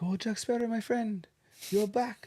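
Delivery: high, eager hawker calling out; mock the sellers' pushy welcome; hammed-up street vendor greeting; market seller voice. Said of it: "It's like".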